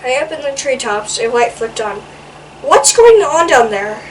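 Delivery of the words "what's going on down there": louder grumpy call from above; sleepy shout. Acted. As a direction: call down from the treetop. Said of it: "shouted a sleepy-eyed squirrel".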